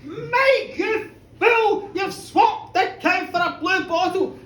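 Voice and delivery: high, loud furious scolding; enraged wife. Acted. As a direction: let him have it. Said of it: "she was so enraged".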